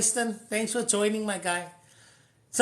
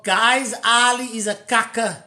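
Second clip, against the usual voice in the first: louder, calling out to the crowd; public announcement; 7 dB louder than usual. Retold or imitated. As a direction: broadcast it to everyone. Announcing to people about Ali.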